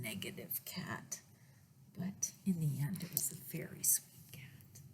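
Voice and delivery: low soft whisper; hushed aside. A narrator's reading. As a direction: confide it quietly. Whispered aside about cat.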